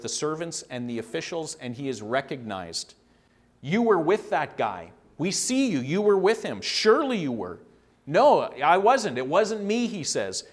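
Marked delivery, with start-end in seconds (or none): 3.6-7.6 accusing. Acted. Acted accusation of Peter by onlookers. 8.1-9.9 drawn-out no, then higher protest; protesting denial. Acted. Acted denial by Peter.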